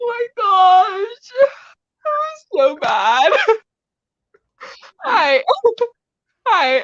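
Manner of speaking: high, slow laughing so hard she's crying. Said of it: "she is literally crying right now".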